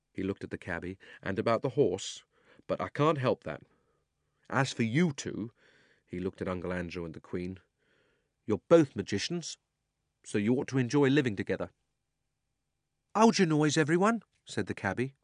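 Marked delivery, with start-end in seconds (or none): 1.2-5.5 put-on a boy apologizing, firm; boy's voice. Diggory speaks. 8.5-11.7 higher, fast mocking boy; a boy taunting the villains; cheeky boy. Diggory mocks them. 13.2-14.2 high, loud hushing call; gruff cabby. Acted. The cabby hushes all.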